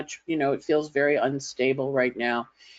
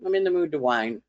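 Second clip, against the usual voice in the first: jumps up high on yeah, then settles; cheeky admission; 4 semitones higher than usual. Retold or imitated. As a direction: own the whining with a grin. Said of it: "And you go".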